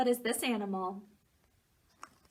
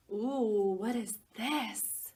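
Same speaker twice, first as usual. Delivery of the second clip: mock surprise; slower than usual. Turning the page, surprise.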